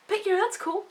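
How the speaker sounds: high sarcastic "that's cool"; dry mock approval. Real, not acted. Sarcastic remark about Varric.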